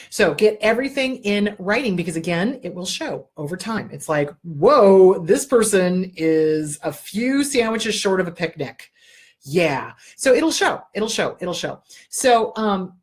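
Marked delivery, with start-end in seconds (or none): 4.4-8.9 a loud, drawn-out whoa, then the rest slowly with raised brows; mock amazement. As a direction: act out a stunned onlooker. Imagined reaction to an ex's behaviour.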